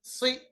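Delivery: "सी" with a thick, heavy s; heavy saad. Shown as a demonstration. Teacher isolating "सी" for students, heavy saad. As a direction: darken the consonant in "सी" into a full saad. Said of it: "सौद को मोटा पढ़ेंगे".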